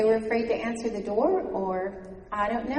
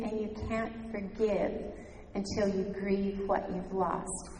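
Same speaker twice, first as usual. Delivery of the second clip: tender comfort. Retold or imitated. Counselor comforting the sobbing mother, slow and tender. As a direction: ease her grief like a kind counselor.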